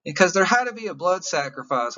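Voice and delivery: emotional, near tears. Real, not acted. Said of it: "I don't wanna start crying".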